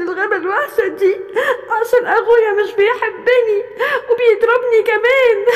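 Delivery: whimpering through tears, head aching; hurt little lion crying. Acted. Little lion beaten by his brother, tearful and hurt. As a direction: plead with him to stop, then sob.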